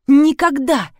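high, loud cry of Никогда; desperate scream. A narrator's reading. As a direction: yell it in panic. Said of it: "закричала та".

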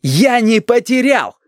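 high, slow shout of Я не потерял. Acted. Yurik shouting at his grandmother, loud and high. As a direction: burst out in frustration. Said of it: "закричал Юрик".

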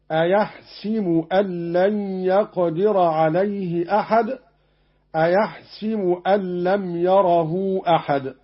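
أيحسب recited "ayahsibu" with an i on the sin; kasra on sin. Shown as a demonstration. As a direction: say أيحسب with an i after the s. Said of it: "بكسر السين في الكلمتين".

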